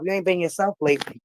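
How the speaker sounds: retold confiding whisper; soft, breathy aside. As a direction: whisper it like a worried counselor. Counselor confides quietly.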